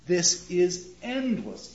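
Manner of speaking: slow, stretched phrase; slow, lingering read; drawn out. Shown as a demonstration. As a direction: stretch endless out a second time. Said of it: "It's drawn out".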